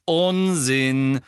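dismissive. A narrator's reading. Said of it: "sagte Fred".

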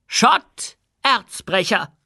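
high, loud, sudden summons by name; commanding call. A narrator's reading. Queen points at one dwarf, calling out sharply. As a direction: call him out before everyone.

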